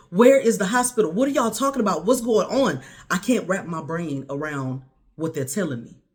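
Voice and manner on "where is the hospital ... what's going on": higher, urgent string of questions; retold frantic demand for answers; increasingly hysterical. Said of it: "getting more hysterical by the second".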